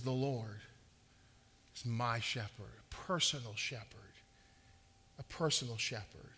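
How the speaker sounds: soft and low, "my" and "personal" lingered on; hushed intimacy. Acted. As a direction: draw the listener in quietly, stretching "personal". Intimate quote of David's psalm.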